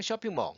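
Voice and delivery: 쇼핑몰 as "shopping maw", L unsounded; English-style 쇼핑몰 with dark L; natural pronunciation. Shown as a demonstration. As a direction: let the L in 쇼핑몰 melt away. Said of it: "실제 발음할 때는".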